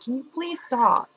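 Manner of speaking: high, polite exasperation; mock sweet irritation; annoyed but soft-voiced. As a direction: imitate a gentle friend pleading. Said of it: "being annoyed".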